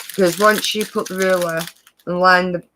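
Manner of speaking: talking with something in mouth; words round a mouthful; mouth full. Real, not acted. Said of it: "I've got something in my mouth".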